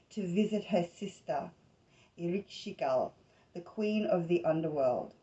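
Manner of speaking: measured read-aloud of a myth; story narration. Acted. Host reading a goddess myth from a book to listeners, story narration. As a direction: read it out in phrases, with pauses between them.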